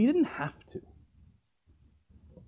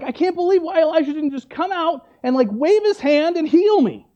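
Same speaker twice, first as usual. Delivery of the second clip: mild mock outrage, pitched up; retold fury; 5 semitones higher than usual. Preacher voicing Naaman angry at Elisha, mildly indignant. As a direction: act out an offended man's complaint. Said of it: "is furious. He's so mad".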